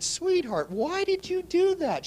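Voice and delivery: very high, drawn-out incredulous question; acted dismay. Investor asks lady about her years of nails and hair, acted dismay.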